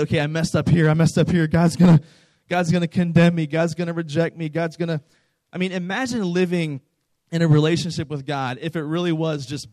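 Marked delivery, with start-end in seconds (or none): 0.0-5.0 mock panic. Acting out fear of God's rejection.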